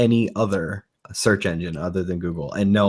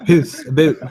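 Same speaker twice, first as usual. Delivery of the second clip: put-on Australian accent; 7 semitones higher, 6 dB louder than usual. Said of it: "I'm saying the, the accent".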